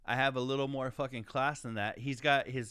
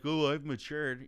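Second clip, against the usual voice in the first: mocking quote; slower than usual. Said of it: "and be like".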